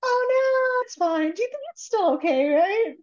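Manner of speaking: mock panic. Retold panicky condom drop.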